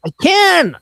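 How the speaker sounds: loud, high burst back; exclaimed retort. Real, not acted. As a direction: shout back over the pestering. Snaps back at co-host's pestering.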